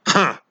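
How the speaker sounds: a mild mock sneer; sneering guffaw. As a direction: scoff it off like a gruff loner. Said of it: "a sneering guffaw where it's like the sarcastic".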